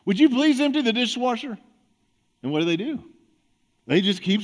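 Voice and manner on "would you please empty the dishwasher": raised voice, a bit more insistent; a little louder. Shown as a demonstration. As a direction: turn the volume up a notch on the request. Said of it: "crank the volume of your voice up just a little bit".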